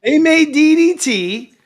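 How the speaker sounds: DDT spelled out high, loud and slow; outraged, slow letters; emphatic outrage. Real, not acted. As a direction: hammer each letter of D D T.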